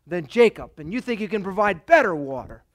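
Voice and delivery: mock-proud challenge with punched words; a touch of scornful pride. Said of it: "in her pride".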